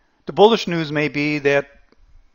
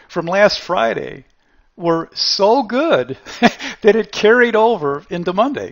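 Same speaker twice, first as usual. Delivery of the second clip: real laughter breaking up the words, higher and louder; laughing; 5 semitones higher, 5 dB louder than usual. Real, not acted. Host laughing at the TV excuse for the market rally, real laughter breaking through. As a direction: fight through your own giggles. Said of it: "I can't even say this without laughing".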